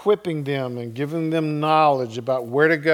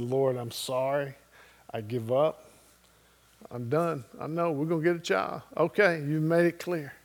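hushed, much softer surrender; broken retold prayer; 8 dB quieter than usual.

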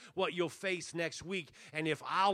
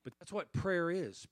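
ordinary delivery

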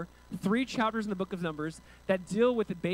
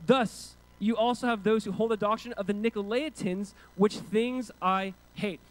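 scripture reading. Acted. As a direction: read the verse out with weight, drawing out key words. Reads scripture aloud.

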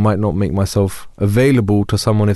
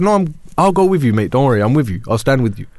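urgent reassurance; 4 semitones higher than usual. Retold or imitated. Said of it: "I said".

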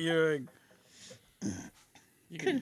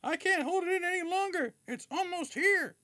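mock child scream; 14 semitones higher than usual. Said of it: "started screaming from the back seat".

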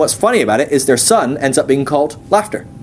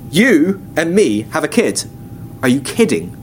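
incredulous. Retold or imitated. Sarah scoffs at the news.

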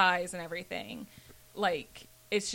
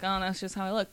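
resigned acceptance in usual pitch; faster than usual. Shown as a demonstration. Showing friends the wrong way to accept your looks, resigned. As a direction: say it as if giving in. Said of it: "like, a resigned way".

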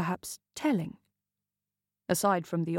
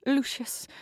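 higher, breathless and hurried; breathless woman urging her lover; 5 semitones higher than usual. Acted. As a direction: urge him on, out of breath. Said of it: "the woman urged breathlessly".

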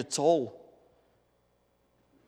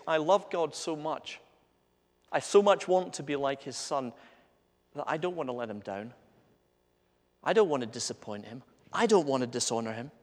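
sincere devotion; 3 dB quieter than usual. Acted. Voicing a devoted believer's heart.

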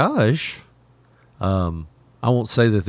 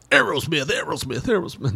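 band name echoing softly; softer echoed station drop; mock echo effect; 4 semitones higher, 4 dB quieter than usual. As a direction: repeat it like a fading radio echo.

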